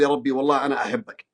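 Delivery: تضرع هادئ يطلب الشفاء; صوت خافت راجٍ عند تكفى يا ربي; مناجاة متضرعة. Shown as a demonstration. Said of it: "تقول لله سبحانه وتعالى". (مريض يناجي ربه بتضرع خاشع)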